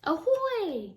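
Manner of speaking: high, loud cheery call; excited hail. Acted. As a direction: shout a greeting across the water. Otter hails the narwhal.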